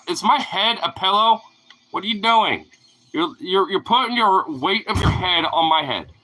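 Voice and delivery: exasperated loud complaint; loud protest. Real, not acted. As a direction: protest at the dog on his head. Dog lying on his head.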